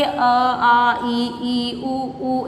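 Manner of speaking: low, sing-song letter recitation; children reciting letters. Retold or imitated. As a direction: imitate pupils counting through the vowels one by one. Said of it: "कुछ बच्चे बोल रहे होंगे".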